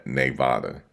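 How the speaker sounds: "Nevada" as nay-VAH-duh after false starts; own accented pronunciation. Shown as a demonstration. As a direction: land on "Nevada" with a NAY first syllable. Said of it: "it's my accent".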